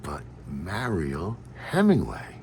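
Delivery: slow, hushed warning; very soft, secretive retold whisper; discreet whisper. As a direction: confide it under your breath, drawn out. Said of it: "I sort of whisper".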